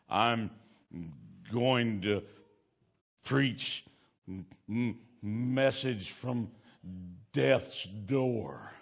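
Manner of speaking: slow, broken, struggling words of a dying man; imitating a weak man forcing out each word; halting dying man. Dying man quoted speaking haltingly.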